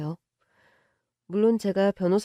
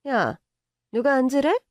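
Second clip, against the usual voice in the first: sharp higher rebuke; bossy rich mother; 4 semitones higher than usual. Acted. Mother scolding the girlfriend for sitting, sharp. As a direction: snap at her for sitting.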